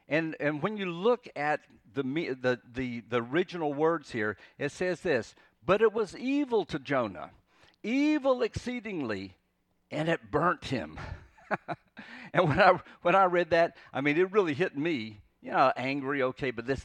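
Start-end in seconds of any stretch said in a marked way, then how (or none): 5.7-11.0 "evil" drawn high and forceful, falling onto "burnt him"; emphatic reading. Acted. Preacher unveiling the original words of Jonah's anger, emphatic. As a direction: read it with weight on "evil". Reads stronger wording of the verse emphatically.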